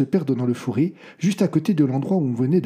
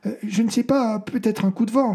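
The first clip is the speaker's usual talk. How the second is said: unpleasant tone; 9 semitones higher than usual. A narrator's reading. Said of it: "parlait sur le même ton désagréable que le médecin".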